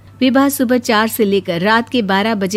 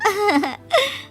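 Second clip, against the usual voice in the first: high, short giggle; 9 semitones higher than usual. Acted. Bride-to-be capping her boast to the in-laws, giggle. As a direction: let out a brief high titter.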